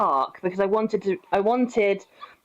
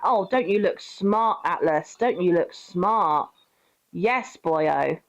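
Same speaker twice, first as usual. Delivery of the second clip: praising the dog, tender and slow; cooing; slower than usual. Real, not acted. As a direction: coo at a pet.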